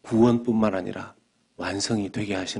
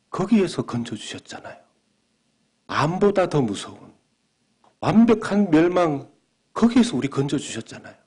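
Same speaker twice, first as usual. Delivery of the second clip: higher, louder, fervent preaching cry; preaching climax; 8 semitones higher, 6 dB louder than usual. Real, not acted. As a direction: build to a passionate shout of praise. Sermon climax on salvation. (높고 힘차게 외치는 설교)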